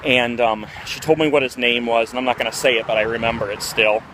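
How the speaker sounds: winded, breathing hard between words. Real, not acted. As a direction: talk while catching your breath. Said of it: "I'm out of breath".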